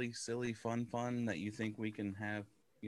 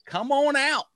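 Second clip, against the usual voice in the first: put-on hick Southern accent; 13 dB louder than usual. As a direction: call the country folks out in a Southern twang. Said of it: "I can do this accent".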